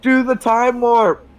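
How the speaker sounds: high, drawn-out chanting call; crowd-style shout. Acted. Game master voices a bunch of people, shouting. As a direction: call it out slowly like a chorus. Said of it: "sounds like a bunch of shouting".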